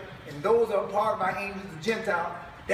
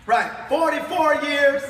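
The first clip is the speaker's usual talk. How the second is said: slow, loud and laughing; 6 semitones higher, 8 dB louder, slower than usual. Real, not acted. Preacher laughs over the long jail term, slow and loud. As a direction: savour the joke through laughter.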